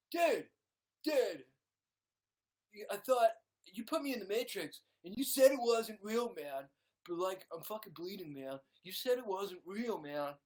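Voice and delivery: loud, high-pitched aggrieved dude; Keanu Reeves. Acted. Film hero protesting to his mentor, loud whiny dude voice. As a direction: protest like a bewildered stoner. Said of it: "I'm Keanu Reeves".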